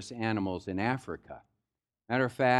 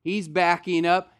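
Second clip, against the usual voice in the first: ordinary talk, nothing marked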